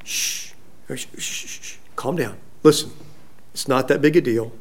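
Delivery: very soft, low calming voice; shush, then quietly talk them down; parent hushing children. Retold or imitated. Parent to an upset child, soft and soothing. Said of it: "do that with your children".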